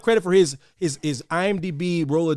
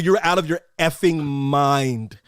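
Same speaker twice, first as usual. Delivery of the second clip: emphatic dismissal; 4 semitones lower, slower than usual. Retold or imitated. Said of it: "I go".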